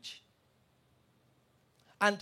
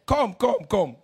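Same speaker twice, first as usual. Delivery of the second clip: calling out; 5 dB louder, slower than usual. Retold or imitated. Calling the mad woman forward.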